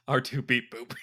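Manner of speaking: robot beeps. Pretend. Laughing robot beeps joke.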